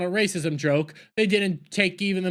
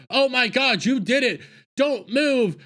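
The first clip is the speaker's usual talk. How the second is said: higher and louder mock alarm; alarmed outburst; 7 semitones higher, 3 dB louder than usual. Jedi finding the body, shocked mock shout. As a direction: burst in shocked and order them still.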